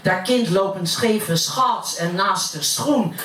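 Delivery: gossiping neighbour in Utrecht dialect; broad Utrecht accent. Acted. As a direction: recite it as Utrecht stairwell gossip. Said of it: "dat heb ik naar het Utrechts vertaald". (roddelend in plat Utrechts)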